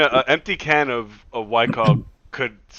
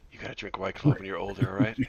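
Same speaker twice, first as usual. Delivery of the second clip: put-on hushed, softer confiding to a sleeping kid; mock whisper; 4 semitones lower, 7 dB quieter than usual. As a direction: murmur it low as if at a bedside. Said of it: "just whisper to him".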